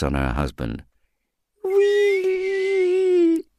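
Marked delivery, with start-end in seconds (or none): 1.6-3.4 a very high, thin whistling creature voice; high whistled cry. Acted. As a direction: whistle the word like a strange little being. Het kind fluit.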